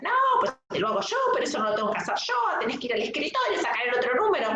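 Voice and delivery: fast, high mock rant of an angry cashier; imitating angry cashier. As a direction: rattle it off like a snappy cashier, half-mocking. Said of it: "me empieza a gritar a mí".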